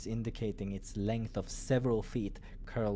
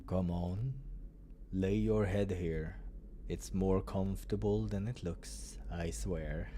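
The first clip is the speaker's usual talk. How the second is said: low tender coaxing; 3 semitones lower than usual. Acted. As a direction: gently coax him. Doctor invites head on lap.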